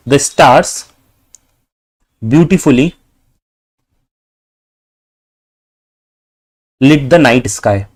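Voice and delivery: slow and broken up, long pauses between words. Shown as a demonstration. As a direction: dictate it word by word while writing. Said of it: "this is the meaningful sentence with the correct sequence".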